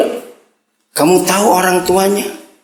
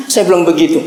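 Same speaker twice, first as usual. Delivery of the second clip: ordinary talk, nothing marked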